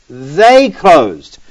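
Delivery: "they" drawn out and weighted; deliberate emphasis on "they"; stress on THEY. Shown as a demonstration. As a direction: lean on "they", pausing before it. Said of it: "What's the emphasis here?".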